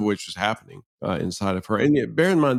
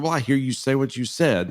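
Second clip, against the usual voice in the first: snarky reply; 5 semitones higher than usual. Retold or imitated. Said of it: "a snarky response".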